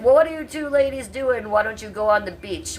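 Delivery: imitating a German friend's accent lightly. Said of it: "with his little German accent".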